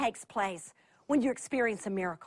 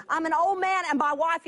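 a hint of a doubting old man, louder; lightly voiced old priest protesting; mock Zechariah; 3 semitones higher, 4 dB louder than usual. Preacher voicing Zechariah to the angel, mild mock complaint. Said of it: "He says".

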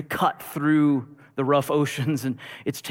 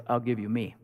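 quiet sacrifice; 4 semitones lower, 6 dB quieter than usual. Acted. Rescuer offers his life.

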